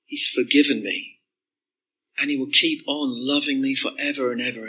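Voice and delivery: understated worshipful awe; adoring praise. Pretend. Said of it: "you'll say".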